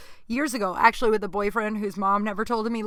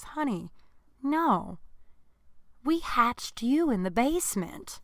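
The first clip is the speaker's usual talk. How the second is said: imitating a gently serious mother, higher pitched; loving mom voice; 4 semitones higher than usual. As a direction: break it to a child tenderly, with pauses. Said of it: "like a loving way".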